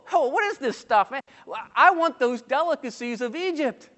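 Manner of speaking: hammed-up whiny grumble; mock grumbling. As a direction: act out a crowd griping about what it got. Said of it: "No, they grumbled".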